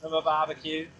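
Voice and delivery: ordinary delivery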